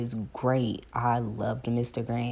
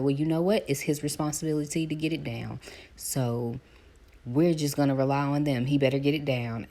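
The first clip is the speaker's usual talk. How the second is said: lender advice voice; 3 semitones higher, 3 dB louder than usual. Retold or imitated. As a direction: confide it half whispered. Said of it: "he was like".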